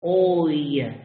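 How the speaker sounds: "oy" as one quick gliding sound. Shown as a demonstration. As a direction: glide "oy" from open o to ee. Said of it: "you say oy".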